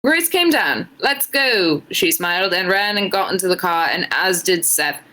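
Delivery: put-on a shaky try at an Irish accent, drifting British; reading fan fiction aloud in a so-so Irish lilt; attempted Irish accent. Streamer reading fan fiction to chat, in a struggling Irish accent. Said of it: "trying her best to do an Irish accent".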